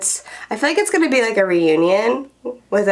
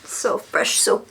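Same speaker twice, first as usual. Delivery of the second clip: whisper; slower than usual. Real, not acted. After washing face.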